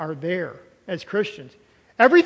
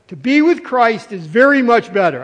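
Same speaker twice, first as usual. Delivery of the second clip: "very much better" driven home loudly; emphatic; 3 semitones higher, 6 dB louder than usual. Shown as a demonstration. Preacher stressing Paul's point, "very much better" loud and emphatic. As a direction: lean hard on "very much better", louder. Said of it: "He wanted to triple emphasize it".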